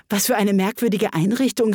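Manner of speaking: a touch of astonishment; exclaiming. Acted. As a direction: exclaim in light wonder. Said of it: "rief Alice aus".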